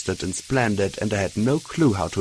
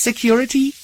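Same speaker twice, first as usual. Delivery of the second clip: sighing prompt; 6 dB louder than usual. A narrator's reading. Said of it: "I sighed and added".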